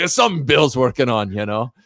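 light imitation of a Glaswegian; attempted Glasgow accent. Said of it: "like, a thick accent".

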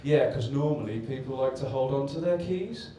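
mock-sarcastic questioning lilt, rising at the end. Sarcastic yard worker answering the man who threw away his keys, imitated sarcasm. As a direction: imitate a workman's sarcasm, lifting the last words. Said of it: "the really sarcastic one went".

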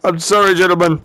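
low, grave mock apology; solemn farewell. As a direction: play the outlaw boss saying goodbye. Dutch's mock farewell before roulette.

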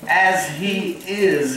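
"As he is" said slowly, with the weight on "is"; stress on is. Shown as a demonstration. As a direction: dwell on "is" as present tense. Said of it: "is present tense".

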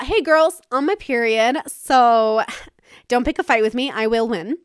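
playful warning. Retold or imitated. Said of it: "I like to warn my brothers".

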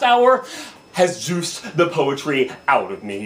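emphatic, rhythmic open-letter delivery; slam poetry. Acted. Driver addressing cops who pulled them over, slam poetry. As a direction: declaim the complaint in measured bursts. Second slam poem begins.

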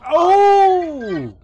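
sudden high yelp of shock; startled shout. Real, not acted. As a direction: jump and yell in surprise. Sudden shock while playing.

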